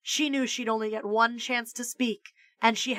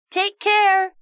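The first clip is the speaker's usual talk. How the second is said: put-on kid voice; 10 semitones higher, 7 dB louder than usual. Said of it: "said Calvin's voice".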